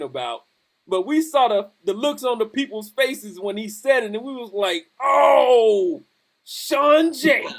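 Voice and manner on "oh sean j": laughing shout. Retold or imitated. Friends reacting in alarm, laughing.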